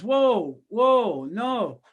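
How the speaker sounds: imitated "whoa", loud and falling; mock shock, trying to halt a caller; alarmed radio host. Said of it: "the radio guy goes".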